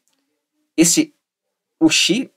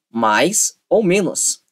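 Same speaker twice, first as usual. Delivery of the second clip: very slow Mais ou menos; drawn-out mais ou menos; slow, stretched; 4 semitones higher, much slower than usual. Shown as a demonstration. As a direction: stretch the phrase out to memorize it. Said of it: "Em vez de você falar sabe".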